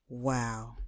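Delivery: awed hush. Acted. Teacher speechless.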